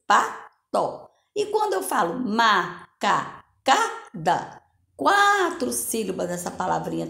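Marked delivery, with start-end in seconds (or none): 0.1-1.1 "Pato" said in two clear beats, pa-to; syllables spelled out. Shown as a demonstration. Teacher shows pupils the syllables of "Pato", clearly. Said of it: "abro minha boquinha duas vezes".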